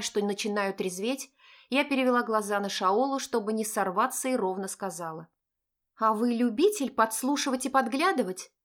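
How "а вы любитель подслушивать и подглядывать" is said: smirking. Acted. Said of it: "усмехнулась я".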